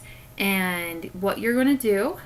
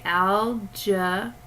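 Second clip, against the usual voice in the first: "algebra" said slowly, syllable by syllable: al-ge-bra; much slower than usual. Shown as a demonstration. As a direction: break "algebra" into three slow parts. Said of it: "for this one, I would say".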